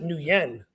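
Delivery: Nguyen said as "noo-YEN"; two syllables in Nguyen, "noo-YEN"; alternative pronunciation. Shown as a demonstration. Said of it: "but he pronounced it".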